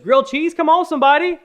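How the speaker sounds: high, loud gleeful cheer; excited kid voice. Retold or imitated. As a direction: shout it like a thrilled kid over lunch. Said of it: "He goes".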